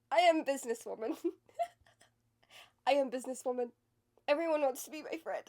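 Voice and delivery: loud mock-confident declaration through laughter; laughing self-affirmation. Vlogger reciting affirmations to herself, laughing and mock-confident. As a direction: proclaim it boldly and crack up.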